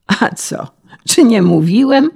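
mildly triumphant exclamation, rising high; a touch of gleeful vindication; joyful cry. A narrator's reading. Official proved right about the foolish peasant, gleeful. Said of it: "radośnie krzyknął pan Krajzamt".

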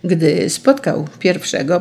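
plain reading voice

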